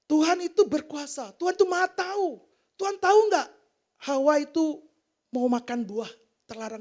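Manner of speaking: building preacher's cry about God knowing all; fervent proclaiming. Real, not acted. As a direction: proclaim God's power to the congregation. Preacher proclaiming God's power.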